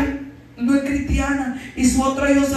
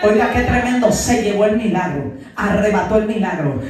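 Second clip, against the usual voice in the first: excited exclamation; 5 semitones lower, 5 dB louder than usual. Real, not acted. Preacher exclaims.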